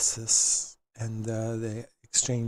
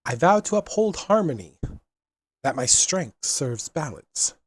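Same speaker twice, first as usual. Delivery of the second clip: solemn oath; 4 semitones higher, 4 dB louder than usual. Acted. Leads oath.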